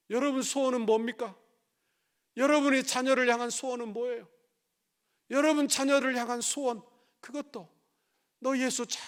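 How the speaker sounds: loud, high, urgent sermon voice; fiery preaching. Acted. Pastor rebuking the congregation, fiery preaching. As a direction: drive the point home to the congregation.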